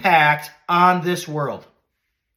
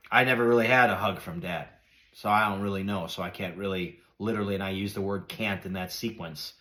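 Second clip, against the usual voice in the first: emotional; 10 semitones lower, 7 dB quieter than usual. Real, not acted. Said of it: "I'm getting emotional talking about it".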